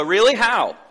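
lightly hammed-up doubt; mock disbelief. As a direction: scoff lightly like a doubting crowd. People doubt God's love.

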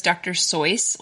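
Seuss said to rhyme with "voice"; alternate pronunciation. Shown as a demonstration. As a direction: say Seuss as "Soyce", with an oy vowel. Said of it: "pronounce it as Seuss and not Seuss".

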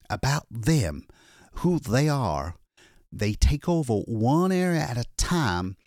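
a hunted man finally safe, still shaking; shaken exhausted man. Acted. Lois tells the attendant of his escape, frightened.

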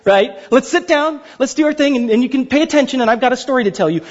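mock classroom teacher; kindergarten teacher. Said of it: "This isn't that".

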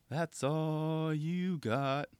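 very slow, quiet, menacing taunt. Retold or imitated. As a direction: draw it out softly like a cold challenge. Voicing Suciu's taunt again.

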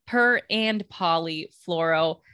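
per and polyfluoro said slowly, syllable by syllable; careful pronunciation. Shown as a demonstration. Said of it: "I can never say this correctly".

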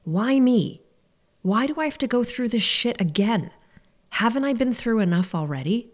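mildly exasperated questioning, pitched a little up; a touch of aggrieved pleading; retold plea. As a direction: re-enact asking the heavens "why me". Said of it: "looked up to the heavens".

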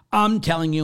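high, loud mock insistence; insistent yelling. Priest imitating the caller insisting he is wrong. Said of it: "she's yelling".

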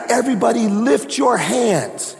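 high, drawn-out call to the room; mock preacher's rallying call. Preacher tells everybody in the front row, calling out high.

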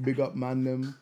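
lightly put-on roadman slang; a hint of London roadman swagger; london roadman accent. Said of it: "If you're in England".

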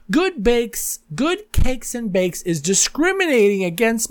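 high-pitched mocking read-out of a complaint; mock indignant tweet. Troll tweeting about the bakery, mock indignant and high-pitched. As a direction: declaim it high, like an outraged customer.

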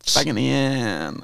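"Fagniant" said high through a laugh. Acted. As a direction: repeat "Fagniant" while laughing. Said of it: "Why did it sound so dirty?".

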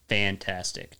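no enthusiasm at all; deadpan. Shown as a demonstration. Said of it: "say it in, like, a deadpan way".

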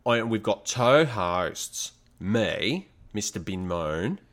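keeps the mock Aussie voice while introducing the hosts; a jokey Aussie host intro; Australian accent. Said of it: "I kinda want you to just keep this voice".

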